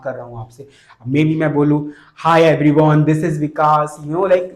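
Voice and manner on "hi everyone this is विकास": louder, bright self-introduction; a louder, announcer-style introduction; raised pitch. Shown as a demonstration. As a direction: open with "Hi everyone" pitched up and projected. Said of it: "मैं थोड़ा सा high pitch करना शुरू कर दिया".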